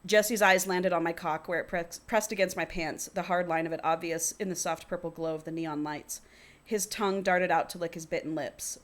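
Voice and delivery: reading a novel aloud; story narration. A narrator's reading. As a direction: read it out as first-person fiction. Reads the book aloud.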